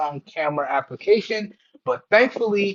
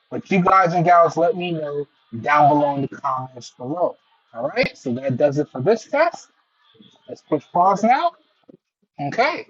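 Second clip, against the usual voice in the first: bluetooth headset mic. Real, not acted. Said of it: "this is an idea of how the microphones on the C M F Buds Pro two perform in a crowdy or simulated noisy or crowdy environment".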